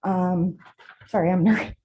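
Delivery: nervous, shaking voice; shaky voice. Real, not acted. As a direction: voice trembling with real nerves. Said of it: "My voice is shaking".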